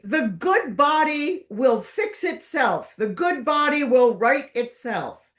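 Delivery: a hint of a grand old lady laying down the law; mild mock pronouncement; imitating the mother. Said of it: "She used to say".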